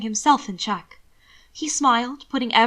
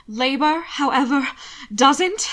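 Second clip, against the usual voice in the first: louder, higher tart retort; called out; 4 semitones higher, 5 dB louder, slower than usual. Acted. Alana snaps back at Hannibal's compliment, loud. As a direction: fire it back through the pain. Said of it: "she called".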